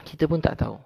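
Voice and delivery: "Kita pun tak tahu" lifted high with a falling pun; emphatic. Real, not acted. Repeated line, first take raised.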